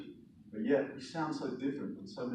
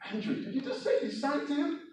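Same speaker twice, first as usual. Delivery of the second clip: high-pitched questioning aunt voice; incredulous aunt; 13 semitones higher than usual. Acted. Aunt asking her nephew about singing, incredulous. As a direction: query it in a much higher voice.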